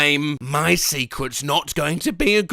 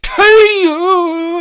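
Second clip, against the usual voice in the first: yelled hey-ya; 11 semitones higher, 9 dB louder than usual. Acted. Sudden yell mid reading.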